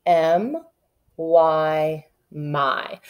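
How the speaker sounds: "M", "Y", then "my" blended; spelling out. Shown as a demonstration. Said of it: "This is the word my".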